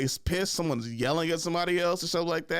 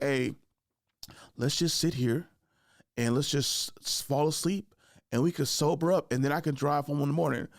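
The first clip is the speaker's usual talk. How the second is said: calm, unhurried suggestion with long pauses; lay-back drunk guy reasoning gently; cool and moderate. Retold or imitated. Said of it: "I've been, like, a cool, moderate person".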